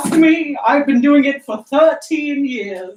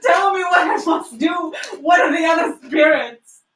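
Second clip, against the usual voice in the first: raised, urgent begging; desperate pleading; 3 semitones higher than usual. Acted. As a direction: cry out for the spirit to stay. Scrooge begs departing spirit.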